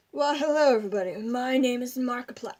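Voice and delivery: a light take on a YouTuber's greeting; lightly voiced gamer intro; Markiplier impression. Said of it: "my impression of Markiplier".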